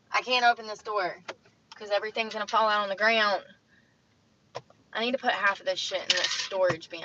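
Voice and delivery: loud frustrated rant; exasperated griping; annoyed rant. Real, not acted. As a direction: vent it at full volume.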